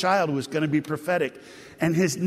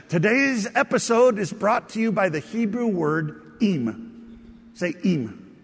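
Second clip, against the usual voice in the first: slow, higher, TV-host announcer read; Sesame Street announcer; 3 semitones higher, slower than usual. Pretend. Preacher playing kids' TV host for the congregation, mock announcer voice. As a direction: sell it like a kids' show sponsor spot. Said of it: "if this was Sesame Street".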